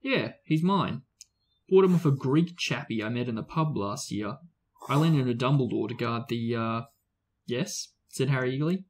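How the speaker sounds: steady read-aloud narration of a novel; story narration. A narrator's reading. Reading the chapter aloud to a friend, storyteller narration. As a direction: tell the story to a listening friend.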